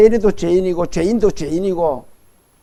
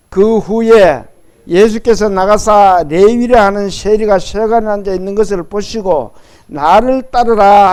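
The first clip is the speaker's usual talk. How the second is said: loud, measured congregational reading; scripture reading; 6 dB louder than usual. Acted. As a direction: lead the congregation through the verse, projecting. Leads congregation reading scripture aloud.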